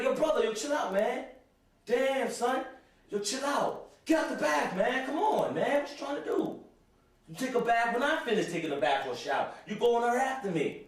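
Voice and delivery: mock angry teen shouting; exasperated yelling. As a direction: yell him out of the shower. Telling brother to get out.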